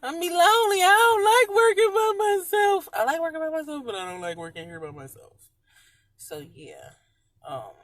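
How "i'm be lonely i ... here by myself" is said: loud, high crying plea; retold complaint, voice cracking into tears; tearful outburst. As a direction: break down over being alone. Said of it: "I'm like".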